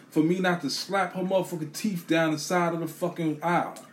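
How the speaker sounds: furious, barely held back; fired-up rant. Real, not acted.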